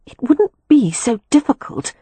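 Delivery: high, playful protesting voice; lightly voiced young woman protesting. A narrator's reading. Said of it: "she protested".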